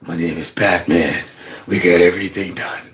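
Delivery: low, raspy superhero parody; Batman. Retold or imitated. Mocking the politician as a masked hero, low raspy voice. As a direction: drop way down, soft and rasping. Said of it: "He slid a little Batman in there".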